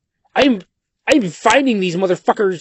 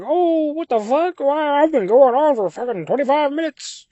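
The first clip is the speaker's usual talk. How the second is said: high, slowed exclamation of self-disbelief; mock dismay at himself; 9 semitones higher than usual. Streamer mimicking his own realisation he rambled too long, high mock dismay. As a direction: act out catching yourself rambling, voice up high. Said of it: "boil down to me being like".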